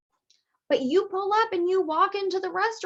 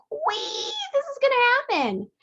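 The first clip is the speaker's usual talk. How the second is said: high startled "wait"; a jolt of alarm mid-sentence; sudden doubt; 12 semitones higher than usual. Retold or imitated. Seller suddenly doubting the sale, startled. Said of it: "because you're just like".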